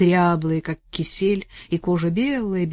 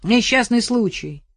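loud call to a neighbour; 4 semitones higher, 6 dB louder, slower than usual. Acted. Арсений кричит соседке, громко. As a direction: shout the excuse across. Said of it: "крикнул Арсений".

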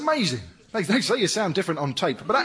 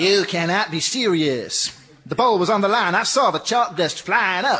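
tennis player. Retold or imitated. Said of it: "I'm playing tennis".

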